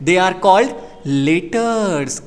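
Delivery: very slow, word by word; slow deliberate teacher voice; slow emphatic. Shown as a demonstration. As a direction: spell it out slowly like a teacher. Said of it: "teacher stresses term".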